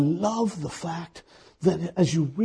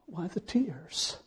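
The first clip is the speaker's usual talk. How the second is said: whisper; 2 semitones higher, 8 dB quieter, slower than usual. Acted.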